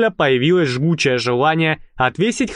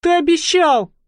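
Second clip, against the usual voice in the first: no longer hushed. Acted. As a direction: cry out, not caring who hears. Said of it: "Игла уже не боялась быть услышанной".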